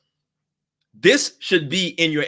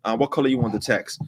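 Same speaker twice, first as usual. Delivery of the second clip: distracted clerk; 3 semitones lower, faster than usual. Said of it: "He was like".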